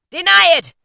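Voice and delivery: high, loud ghostly cry; spirit's cry. A narrator's reading. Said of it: "cried the spirit".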